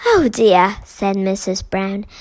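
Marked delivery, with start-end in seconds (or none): 0.1-0.8 dismayed. Acted. Mrs Brown dismayed.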